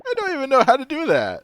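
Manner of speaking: squeaky high-pitched bear. Acted. Player voices timid bear character.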